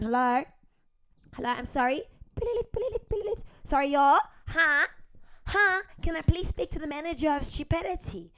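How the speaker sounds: playing a South African caller. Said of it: "I'm gonna be a South African".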